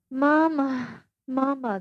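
put-on a young woman calling for her mother like a toddler; baby talk. A narrator's reading. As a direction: call out like a lost little child. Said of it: "talking with me in a sort of baby talk".

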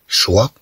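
"ch" pronounced sh; ch as sheen in choi. Shown as a demonstration. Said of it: "سي اش تنطق كالشين". (نطق ch كالشين)

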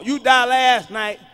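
slow loud mock outrage; slow emphatic. Real, not acted. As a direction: stretch it out in disbelief.

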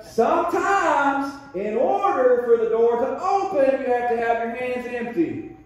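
a hint of a patient divine teacher, slow on "Sometimes"; lightly voiced God teaching a lesson; voicing the Lord. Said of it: "Lord's like".

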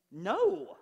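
a sudden loud, high "No."; emphatic no. Real, not acted. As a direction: cut them off with a loud No. Emphatic answer in sermon.

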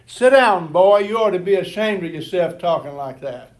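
put-on loud, harsh shout at a boy; grouch scolding. Old grouch in church scolding the stammering boy, loud angry shout. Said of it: "some old grouch in the congregation said".

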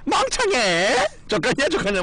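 very high, slow mocking squeal; drawn-out high teasing taunt; old catchphrase. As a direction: stretch the insult out way up high. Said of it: "막 이런 거".

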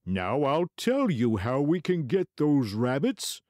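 high, slow scheming weasel; sly weasel voice. Acted. Weasel voice in story.

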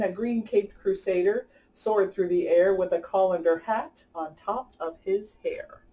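lively rhyming storybook read-aloud; reading to children. A narrator's reading. Host reading a rhyming picture book to kids, lively storybook voice. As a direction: bounce the rhymes along for young listeners.

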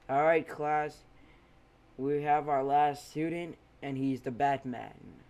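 loud, commanding call to the class; teacher calling out. Acted. Teacher Aizawa announcing a new student, loudly. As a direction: raise your voice over the room.

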